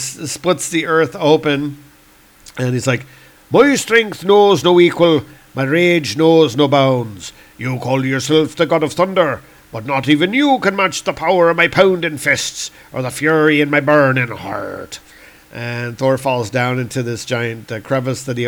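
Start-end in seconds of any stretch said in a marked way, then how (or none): 3.5-15.0 hammed-up warrior boast; raging Celtic god. Lear boasting of his strength to Thor, theatrical fury. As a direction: thunder out a grand comic-book threat.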